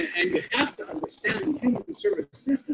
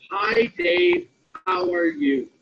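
modeling a friendly greeting; 4 semitones lower, slower than usual. Shown as a demonstration. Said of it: "I want you to say".

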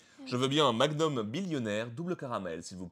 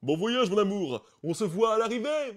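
hammed-up farewell; 10 semitones higher, 8 dB louder than usual. Lord Gontran waving his wife off on the conveyor belt, high and hammed-up. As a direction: overplay the lover's farewell. Husband waves wife off as luggage.

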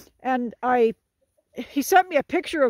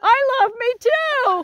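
laughing, a bit higher and slower; laughing self-love; 12 semitones higher, 6 dB louder than usual. Real, not acted. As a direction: toss it back through a laugh. Jokes back after a compliment.

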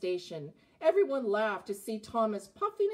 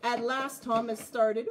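put-on reading to children. A narrator's reading.

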